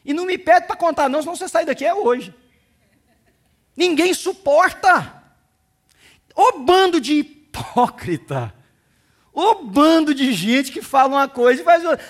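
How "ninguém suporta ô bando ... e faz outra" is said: slow, loud rebuke of hypocrites; slow, loud pulpit rebuke; scolding preaching. Acted. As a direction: call them out from the pulpit.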